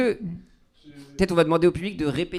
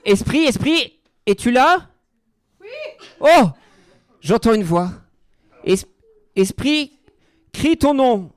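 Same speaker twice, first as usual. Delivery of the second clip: seance medium; 5 semitones higher, 6 dB louder than usual. Pretend. Medium summons a spirit.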